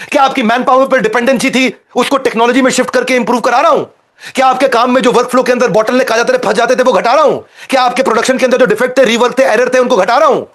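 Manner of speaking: speedy, relentless run of rhetorical questions; rapid-fire. Real, not acted. Business coach firing benefit questions at his audience, rapid-fire. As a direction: rattle off questions without letting up. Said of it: "इतनी speed से बोलता हूं".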